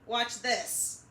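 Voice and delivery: slow, loud show-off bro; cocky eggman. Acted. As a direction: brag like a reckless dude. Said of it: "he says".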